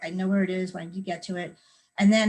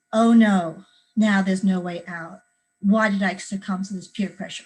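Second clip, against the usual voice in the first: mock panic; 4 dB louder than usual. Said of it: "and you say".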